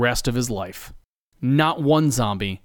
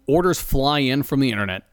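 usual speaking voice

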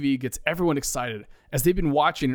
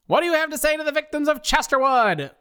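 reporter; 4 dB louder than usual. Acted. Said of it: "asks one reporter".

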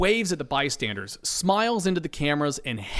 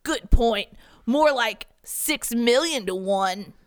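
higher, slow conceding voice; correcting himself; 9 semitones higher, slower than usual. Acted. Riley correcting himself, higher and slow. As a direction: concede and fix the number. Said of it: "as he corrects himself".

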